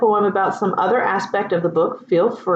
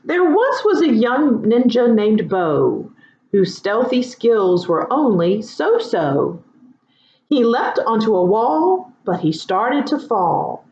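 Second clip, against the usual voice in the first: poem recital. Shown as a demonstration. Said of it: "Here is an example".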